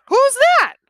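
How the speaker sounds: put-on high, loud kid's question; curious boy. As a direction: call it out eagerly. Boy asks again.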